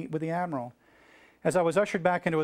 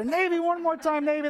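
high-pitched rallying cheer; rally the crowd for another round; yelled cheer; 12 semitones higher than usual. Retold or imitated. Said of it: "yelling louder".

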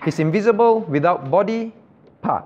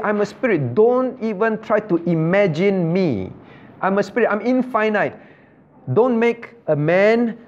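lightly voiced God, higher and insistent; God speaking emphatically; 4 semitones higher than usual. Preacher voices God forbidding images to his people, emphatic. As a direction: lay down each command firmly, pitch lifted. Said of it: "God said".

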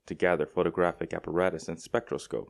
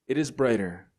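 a raised, excited cry of wonder; 5 semitones higher, 4 dB louder than usual. A narrator's reading. People in the streets marvel at the star, raised excited cry. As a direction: call it out higher and louder, amazed. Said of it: "cried the people clustering in the streets".

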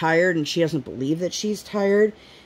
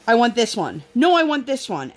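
put-on whiny child; 5 semitones higher than usual. Indecisive daughter voiced.

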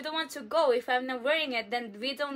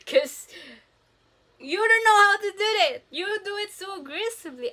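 mock whine; 8 semitones higher, 8 dB louder than usual. Child self pleading against mom.

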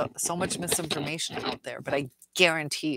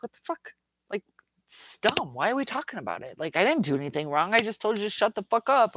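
mock narcissist scorn; 4 semitones higher, faster than usual. Narcissist voiced in scornful quote.

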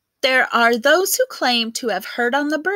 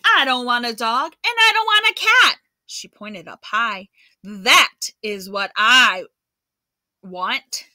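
bratty demand; 3 dB louder than usual. Acted. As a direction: insist like a spoiled girl. Louise demanding the bird.

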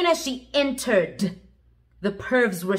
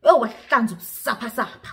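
laughing; faster than usual. Real, not acted. Narrator laughs telling vomiting.

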